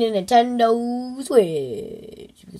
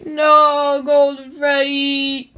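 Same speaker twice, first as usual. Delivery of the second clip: dismayed call; 4 semitones higher, 4 dB louder, much slower than usual. Acted. Dismayed call to Golden Freddy.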